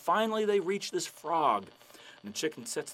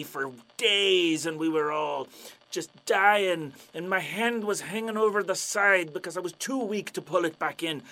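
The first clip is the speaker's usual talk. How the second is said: pirate storyteller; 5 dB louder than usual. Acted. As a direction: spin the tale like an old buccaneer. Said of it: "the pirate's like".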